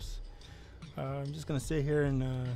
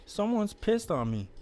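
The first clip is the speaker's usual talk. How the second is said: high, loud whiny character voice; Pukey Pete voice; 6 semitones higher, 5 dB louder than usual. Acted. Pukey Pete whines to the chat about being pissed on. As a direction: complain high and loud like a sad trash guy. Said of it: "I'm still trying to figure out the voice for Pukey".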